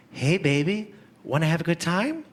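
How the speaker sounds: lightly voiced come-on; a hint of a sultry hooker. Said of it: "my impression of a superhero being propositioned by a hooker".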